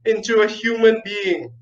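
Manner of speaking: high, tearful begging king; a father's desperate plea, high and shaky; pleading cry. Acted. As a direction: beg through near tears. King begging in story climax.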